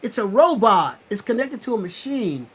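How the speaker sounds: high, loud and urgent; rousing wake-up call, loud and high; fired-up preaching. Real, not acted. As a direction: shake them awake with your voice. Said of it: "I'm talking like that because people need to wake up".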